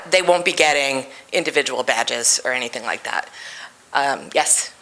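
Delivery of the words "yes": ordinary talk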